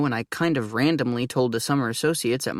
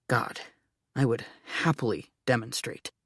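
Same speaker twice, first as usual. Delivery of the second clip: quiet aside; 2 semitones lower, 6 dB quieter than usual. Acted. Inner aside, dropped voice.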